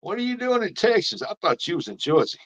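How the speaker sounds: surprised, teasing the viewer. Real, not acted. Asking a viewer why they're in Texas, surprised.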